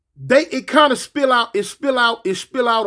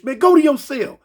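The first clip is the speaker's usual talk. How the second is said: officer order; 4 semitones higher, 3 dB louder than usual. Retold or imitated. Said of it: "The police tell Blowfish".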